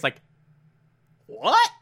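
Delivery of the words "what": dumb what. Retold or imitated. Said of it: "that dumb look on his face".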